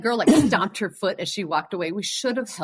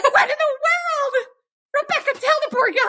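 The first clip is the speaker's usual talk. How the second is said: exasperated disbelief. Retold or imitated. To Rebecca, who dodged the rip, very high disbelief. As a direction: plead in disbelief. Friend asked about van instead.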